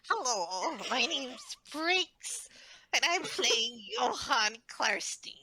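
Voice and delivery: put-on old person voice. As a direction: introduce yourself like a retiree. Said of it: "I'm supposed to do it in retirement".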